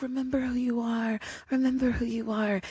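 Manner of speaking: gentle reminder. Retold or imitated. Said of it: "she's like".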